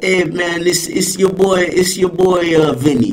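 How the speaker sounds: hammed-up Jersey Shore swagger; trashy Jersey Shore accent. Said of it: "really trashy Jersey Shore".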